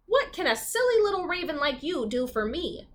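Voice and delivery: a light sneer; mildly scornful, talking down. Acted. Old woman mildly sneering at the little raven. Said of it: "the old woman sneered".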